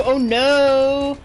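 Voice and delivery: loud panicked yelling; panicked shout. Real, not acted. Yelling at the boss while swinging her sword.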